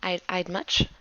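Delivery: soft, shy and trailing off; a shy orphan boy, fading to nothing; soft bashful boy, voice dropping away. Acted. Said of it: "He sorta smiles and says".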